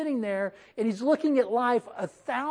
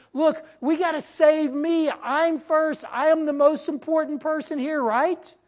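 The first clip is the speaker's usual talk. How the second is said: louder, higher, self-centred boast; a hint of a pushy, selfish husband; selfish Abraham; 5 semitones higher, 4 dB louder than usual. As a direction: play him as a man looking out only for himself. Selfish Abraham voiced to wife.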